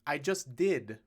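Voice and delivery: dad retorting to a heckler. Acted. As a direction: snap back at the heckler. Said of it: "retorted Troy".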